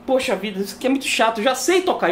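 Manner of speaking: mock impatient grumble. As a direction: re-enact a fed-up learner's complaint. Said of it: "E a impaciência que eu fiquei".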